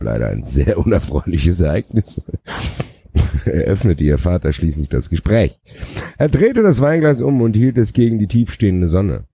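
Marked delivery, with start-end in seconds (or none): 6.2-9.2 hammed-up novel reading; dramatic story narration. A narrator's reading. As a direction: savour every phrase like a storyteller. Reads the novel with relish.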